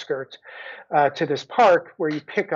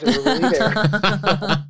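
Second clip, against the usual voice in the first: laughing insistence; 4 semitones higher, 4 dB louder, slower than usual. Real, not acted.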